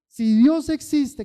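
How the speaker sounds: a desperate man testing God; pleading cry. Retold or imitated. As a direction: beg it out, slowing down. Man's retold plea, repeated louder.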